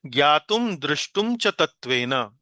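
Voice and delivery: ज्ञातुम दृष्टुम च तत्वेन recited slowly and evenly; ज्ञातुम दृष्टुम च तत्वेन chanted slowly; slow recitation. Shown as a demonstration. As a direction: read the verse words out deliberately. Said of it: "उसके बाद आप देखिए".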